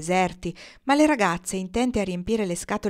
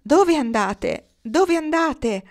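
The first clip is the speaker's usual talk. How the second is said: slow, high, loud call; raised voice, higher the second time; called-out question; 8 semitones higher, 6 dB louder, much slower than usual. A narrator's reading. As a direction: draw the question out and up. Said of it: "udirono una voce che domandava".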